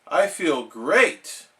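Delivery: slow, feeble claim of feeling great; weak fake cheer. Sick SpongeBob weakly assuring his boss. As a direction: force the words out though sick. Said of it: "said SpongeBob weakly".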